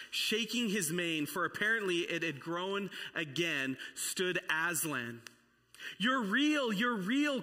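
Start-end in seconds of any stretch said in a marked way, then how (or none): 6.0-7.4 high, loud overjoyed cry; joyful cry. A narrator's reading. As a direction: shout it out in disbelieving joy. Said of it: "cried the girls".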